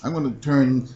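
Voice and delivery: hammed-up cartoon villain threat; mustache twirling villain. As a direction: gloat like an imp.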